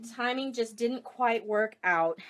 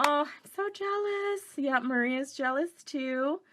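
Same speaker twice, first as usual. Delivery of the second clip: playfully jealous; 4 semitones higher than usual. Real, not acted. Viewer went to Brisbane event.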